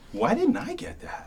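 high, drawn-out mock exasperation; self-reproach. Actor reacting to a director's line reading, mock exasperated. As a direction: kick yourself in a high, slowed voice.

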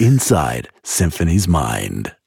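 low, slow TV narrator voice; deep dramatic trailer read; documentary announcer. Pretend. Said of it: "Oh, that's really good".

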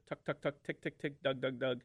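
spoken single cut duck chatter; single cut feed chatter. Shown as a demonstration. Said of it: "what they call the single cut".

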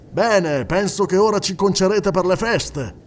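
più forte, esclamato con una risata; esclamando ridendo. A narrator's reading. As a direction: scherza ad alta voce col giornalista. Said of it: "esclamò ridendo". (il presidente al giornalista, ridendo forte)

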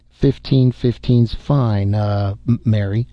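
slow, gentle reply to his secretary. Acted. Marlowe gently answers his abashed secretary, slow and kind. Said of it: "Marlowe said gently".

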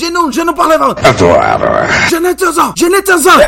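high, yelled mock French; makeshift French. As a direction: protest in hammed-up broken French. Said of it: "aí mandei um francês". (francês improvisado, agudo e gritado)

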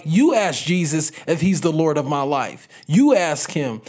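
sharp, bitter throwback of the question; snarky angry retort. Retold or imitated. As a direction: spit the question back at him. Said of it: "kinda snarky".

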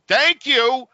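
high, loud, sing-song "Thank you"; exaggerated thank you. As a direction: chirp it with fake cheer before hanging up.

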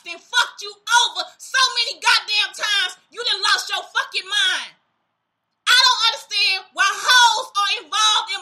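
angry shout. Real, not acted. Furious rant at abuser.

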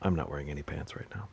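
ordinary talk

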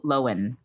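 Lohan said as LOW-un, silent H; Lohan without H. Shown as a demonstration. Telling her cohost how the actress says her name, LOW-un. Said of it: "we're supposed to say".

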